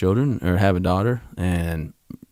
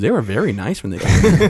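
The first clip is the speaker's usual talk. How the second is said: laughing quote; 3 semitones higher, 4 dB louder than usual. Retold or imitated. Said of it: "She goes".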